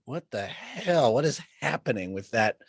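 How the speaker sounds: slow, stunned what the hell; baffled at mirror. Retold or imitated. Host staring at her own face in the mirror, slow and baffled. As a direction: gape at your own reflection. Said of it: "I'm just like".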